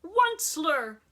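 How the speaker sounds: loud high croaked cry; loud croaking Lorax call. A narrator's reading. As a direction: croak out his name loudly. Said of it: "he cried with a cruffulous croak".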